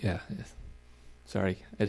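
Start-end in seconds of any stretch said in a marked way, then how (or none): 0.0-0.5 words on a burp. Real, not acted. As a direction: talk through a burp. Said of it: "That was just a burp".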